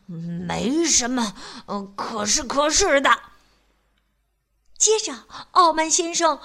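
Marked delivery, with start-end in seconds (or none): 0.1-3.2 angry shouting. Acted. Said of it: "傲慢先生气得嚷嚷着".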